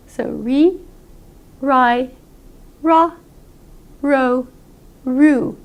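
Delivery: re, ri, ra, ro, ru said slowly with lips pursed for the R; American R drill. Shown as a demonstration. Teacher drilling American R with pursed lips. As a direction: purse the lips on each R syllable. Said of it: "pursing your lips and making an American R".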